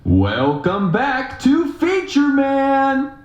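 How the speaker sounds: hammed-up high game show intro; high announcer voice. Shown as a demonstration. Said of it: "I'm gonna mess with the voiceover".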